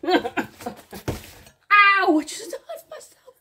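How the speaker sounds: high, loud laughing cry of pain; half laugh, half ouch; laughing pained yelp. Real, not acted. Vlogger nicking a finger with the knife, laughing yelp.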